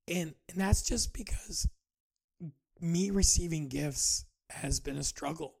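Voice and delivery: breathy whispered aside; half-confiding whisper. Real, not acted. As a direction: drop to a whisper on "that's just because". Aside about receiving gifts.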